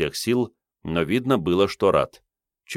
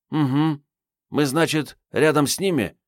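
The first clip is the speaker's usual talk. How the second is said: put-on higher girl's voice; young woman voice; 9 semitones higher than usual. A narrator's reading. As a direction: ask warily like a young woman. Marietta voiced.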